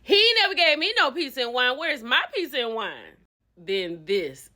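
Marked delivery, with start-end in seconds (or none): 0.0-3.2 mock outrage. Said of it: "He was like".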